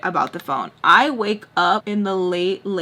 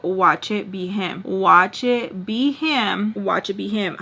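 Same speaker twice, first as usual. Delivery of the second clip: lightly voiced bruja, drawn-out words; a hint of a witchy premonition, slowly; bruja foretelling; slower than usual. Predicting who is calling like a bruja, slow lightly voiced foreboding. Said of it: "like a bruja, I'm like".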